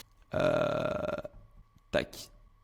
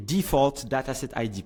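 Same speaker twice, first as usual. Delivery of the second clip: English accent. Shown as a demonstration. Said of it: "qui veulent se moquer de mon accent".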